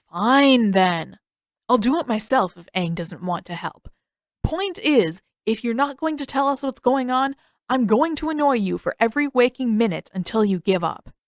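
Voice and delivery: a lightly voiced annoyed Sokka. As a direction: needle her like a pesky brother.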